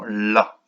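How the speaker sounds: "la" drawn out slowly; sounded-out syllable. Shown as a demonstration. Teacher explaining what is heard at word end, "la" drawn out. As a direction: lean on the opening sound of "la". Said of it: "j'entends la avec un L".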